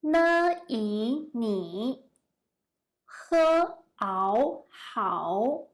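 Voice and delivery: "Ne, yi, ni", sounds separated, then joined; spelling out pinyin. Shown as a demonstration. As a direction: sound out "ni hao" piece by piece. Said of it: "try to read the greeting word by pinyin".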